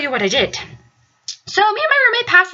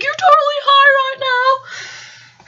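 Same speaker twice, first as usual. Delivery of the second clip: high, slow, sing-song tease; teasing roommate; 9 semitones higher, much slower than usual. Retold or imitated. Roommate teasing Alita in a high, drawn-out voice. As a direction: stretch it out, teasing. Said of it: "She's like".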